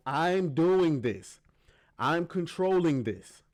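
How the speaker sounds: slow, drawn-out retold insistence; She-Hulk insisting. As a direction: imitate her asserting control, word by word. Voicing She-Hulk insisting she has control.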